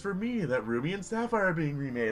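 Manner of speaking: high, overexcited hype voice ending in a yelp; mock an attention-grabbing video host; hyped-up YouTuber. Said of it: "everybody feels the need to do, like".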